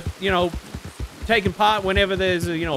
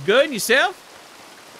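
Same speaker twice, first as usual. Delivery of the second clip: character voice; 3 semitones higher, much slower than usual. Acted. Voicing character Smiley.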